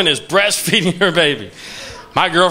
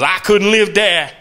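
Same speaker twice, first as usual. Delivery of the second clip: slow New York guy; slower than usual. Retold or imitated. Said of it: "He goes".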